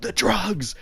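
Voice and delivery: high mock slurp into the words; imitated slurping. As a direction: suck in noisily, then say it high. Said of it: "made a slurping noise".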